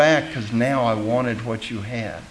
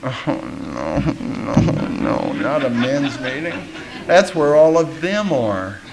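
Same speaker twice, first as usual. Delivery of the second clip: nervous refusal; slower than usual. Retold or imitated. Dreading the men's meeting.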